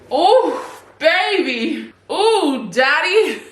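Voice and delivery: put-on high baby-talk hello; cutesy greeting. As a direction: coo at him playfully. Greets partner cutely.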